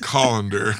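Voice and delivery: "Colander" stressed on the first syllable; joke pronunciation as "Colander". Shown as a demonstration. Correcting co-host as a joke, laughing "Colander". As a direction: say "Colander" like the kitchen strainer. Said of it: "It's pronounced".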